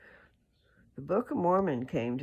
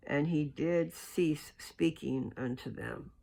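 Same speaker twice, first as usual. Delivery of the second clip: measured, solemn reading of scripture; steady, formal scripture reading voice; 3 semitones higher than usual. Acted. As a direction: read it slow and reverent, like holy text.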